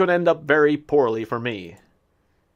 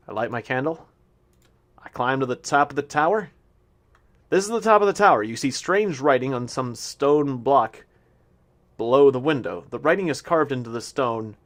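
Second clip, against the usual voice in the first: game text read. Acted. Reading game text aloud.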